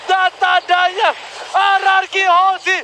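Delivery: hyped shouting play-by-play; fighting game announcer. Real, not acted. Casters hype the final wipe out. (penyiar pertandingan berteriak heboh)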